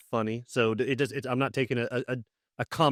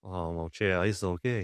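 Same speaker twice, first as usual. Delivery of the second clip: put-on Cajun accent; 4 semitones lower, 4 dB quieter, slower than usual. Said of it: "I hate that pour le français de Cajun".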